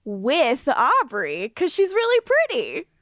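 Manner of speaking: oblivious Fred. Retold or imitated. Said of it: "And then she's like".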